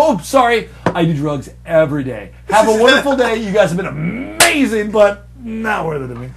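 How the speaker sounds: high, loud, showy goodbye; mock cheery sign-off. Applicant dismissing the interviewers, exaggeratedly cheery. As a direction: send them off with grand fake politeness.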